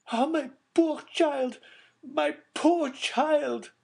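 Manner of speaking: high, slow grieving cry; crying out in grief. A narrator's reading. Baroness falling into her chair, high grieving cry. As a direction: wail for the lost child. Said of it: "cried the Baroness".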